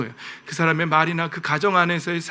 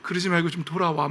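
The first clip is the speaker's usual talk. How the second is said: God; 2 semitones lower, 8 dB quieter than usual. Acted. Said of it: "막 불같이 화내셨다가".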